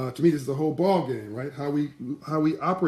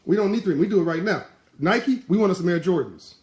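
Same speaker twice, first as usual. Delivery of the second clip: put-on boy refusing to wait for three minutes, high and eager; 4 semitones higher than usual. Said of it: "He said".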